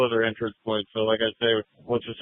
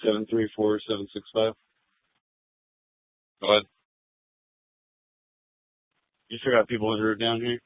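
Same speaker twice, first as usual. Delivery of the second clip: officer speaking over the radio; thin, filtered radio voice; police radio. Real, not acted.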